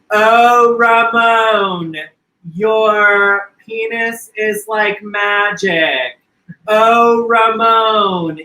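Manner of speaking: fake ecstatic moaning. Woman faking pleasure for the mechanic, hammed-up moans. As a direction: overplay a fake swoon, breathy and drawn out. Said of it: "she pretends".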